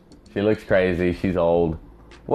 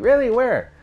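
imitated pestering lady. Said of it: "she just kept saying that over and over".

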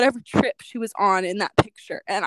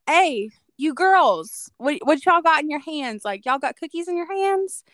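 put-on Southern accent; 5 semitones higher than usual. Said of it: "he has, like, a Southern accent".

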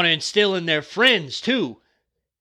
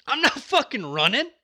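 defiant war cry; 8 semitones higher than usual. Retold or imitated. Rallying listeners to fight, defiant war cry. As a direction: bark it like a marine refusing to fall back. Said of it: "when we said".

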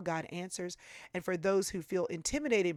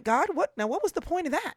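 high, louder, pained outcry; exasperated cry to God; 10 semitones higher, 5 dB louder than usual. Retold or imitated. Grieving daughter crying out to God after her mother's death, high and pained. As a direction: demand an answer from God, hurt and bewildered.

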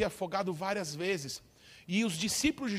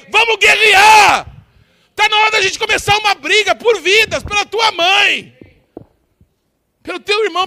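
high, loud preaching shout, building to a roar; rally the church to war for lives; fiery preaching; 11 semitones higher, 14 dB louder than usual. Acted. Pastor rallying the congregation to fight for souls, shouting. Preacher rising to full force.

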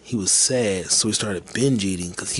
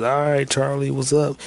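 higher, louder imitated delivery greeting; raised voice, retold doorstep hail; calling out; 5 semitones higher, 5 dB louder than usual. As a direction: call to an unseen customer, lightly acted. Delivery guy calling to unseen customer.

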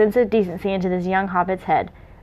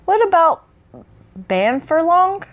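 excited; 8 semitones higher, 3 dB louder, slower than usual. Acted. Excited suggestion.

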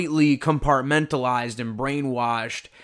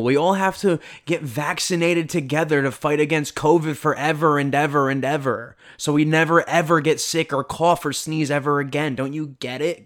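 frat bro. Retold or imitated. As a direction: lecture him like a pushy frat bro. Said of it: "in this little fraternity".

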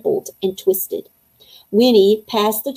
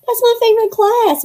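much higher, exclaiming monster voice; rumbling monster voice; 13 semitones higher, 4 dB louder than usual. A narrator's reading. Winnie answering about a favorite class, high monster voice. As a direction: pipe up loudly as a big creature. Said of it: "Winnie's voice mumbled, rumbled the cave walls".

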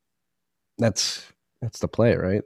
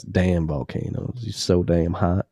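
sexy voice. Pretend. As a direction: purr it like a love letter. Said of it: "I had to say this in a sexy voice".

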